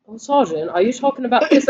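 lightly imitated British soldier; a mild mock British accent. Friend imitates British classmate's first words in class, mock British accent. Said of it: "this tall ass British dude".

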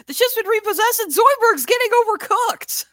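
high, loud cartoon character voice; Hermes voice. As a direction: squawk it out like Hermes. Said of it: "It's like".

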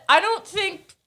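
a hint of a worried host; hesitant plea. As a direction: nervously suggest cancelling the show. Retelling own worried plea.

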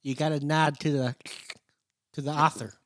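lightly voiced nerdy kid; a hint of a lisping nerd. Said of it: "you're trying to do the nerd, the nerd voice".

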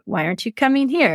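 quick, high mock-exasperated question; impatient call. Host mimicking owner calling her reluctant horse, exasperated. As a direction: toss it off like calling a dawdling horse.

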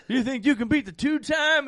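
mock the fans, cracking up; laughing mock taunt.

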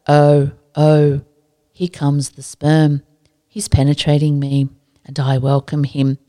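slow flat deadpan teacher reading; monotone voice. Retold or imitated. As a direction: read it dead flat, no feeling. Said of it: "in the most monotone voice".

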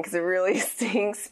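laughing through the words; chuckling while speaking. Real, not acted. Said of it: "I don't even know why I'm laughing".

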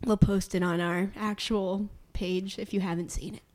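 hushed aside whisper. Real, not acted. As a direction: whisper it to the listeners. Aside to listeners.

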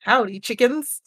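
a hint of country twang; country accent. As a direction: greet the chickens in a mock country accent. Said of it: "put on your best country accent".

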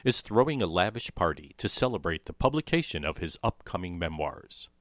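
overwrought stagey melodrama announcer; lightly hammed-up old radio narrator; 1940s melodrama voice. Shown as a demonstration. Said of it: "that was my best nineteen forties melodrama voice".

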